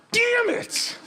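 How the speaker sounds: high laughing exclamation; laughing damn it. Real, not acted. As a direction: burst out laughing at being corrected. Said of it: "caught out, laughing".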